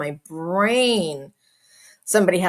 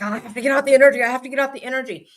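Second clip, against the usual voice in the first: hyper rush; 4 semitones higher, 3 dB louder, much faster than usual. Retold or imitated. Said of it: "I'll be like".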